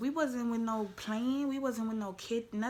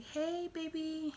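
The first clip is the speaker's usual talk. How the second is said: sweet greeting; 8 semitones higher, slower than usual. Retold or imitated. Acts sweet greeting to boyfriend.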